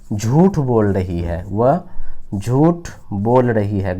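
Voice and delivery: slow, words drawn out; slow dictation. Shown as a demonstration. Teacher giving students the sentence, slow. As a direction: read it out slowly for copying.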